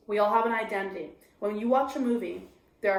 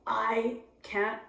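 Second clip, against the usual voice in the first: slow, dragging refusal; retold despair; much slower than usual. Depressed on the couch refusing friends, slow and heavy. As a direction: drag out the words like you can't go on. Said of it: "And I'd say".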